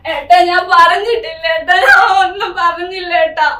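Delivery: loud, tearful denial; frightened plea. Acted. Wife pleading with angry husband, tearful. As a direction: plead to calm him down.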